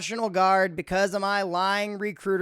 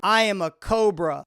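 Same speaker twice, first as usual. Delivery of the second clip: cobra boast. Acted. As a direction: bark it out as a challenge. Threat repeated to a troll.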